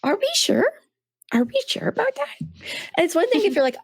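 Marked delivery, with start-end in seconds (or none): 0.0-0.7 teasing doubt. Retold or imitated. Teasing the cranky husband. 1.3-2.3 teasing doubt. Retold or imitated. Teasing the cranky husband.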